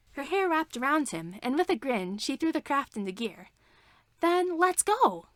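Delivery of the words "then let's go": slow, high, drawn-out go; gleeful. Acted. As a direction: stretch it out with a grin. Princess launches the craft.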